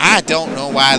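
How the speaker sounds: lightly put-on southern accent, puzzled complaint. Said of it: "giving everyone southern accents".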